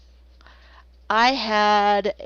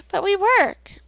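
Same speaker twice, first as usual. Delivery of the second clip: mock parent protest; 9 semitones higher, slower than usual. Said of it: "They were".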